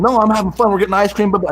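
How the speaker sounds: put-on bubbly teen, all changed; happy daughter. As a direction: daughter now enjoying Utah, high cheerful voice.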